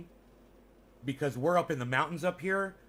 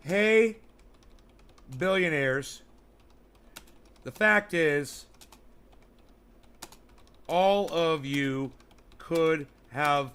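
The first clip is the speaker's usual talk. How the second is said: emphatic rant; much slower than usual. Real, not acted. Addressing billionaires, emphatic.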